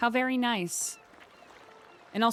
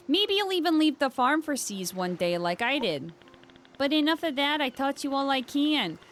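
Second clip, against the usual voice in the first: NPC voice. Acted. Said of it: "Why not use a Boston accent".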